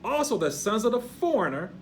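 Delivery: declamatory pulpit reading, swelling on key words; scripture reading. Acted. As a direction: read it out as proclamation. Reads scripture aloud with preaching force.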